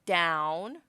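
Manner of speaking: loud, firm order to the pet; firm command. Acted. The hero orders Socks down in front of the crowd, firmly. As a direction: call it out like training a dog. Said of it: "you command".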